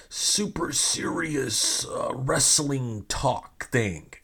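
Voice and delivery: slow, drawn-out mocking emphasis; mock serious. Host mocking fans' wrestling talk, slow mock-serious delivery. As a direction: stretch each word out with mock importance.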